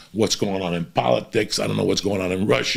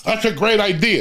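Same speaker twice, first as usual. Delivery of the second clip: sarcastic quote; 12 semitones higher than usual. Retold or imitated. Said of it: "And I was like".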